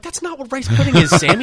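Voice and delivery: high, loud mock exasperation; exasperated correction. Friend correcting Sammy about rice pudding, exasperated.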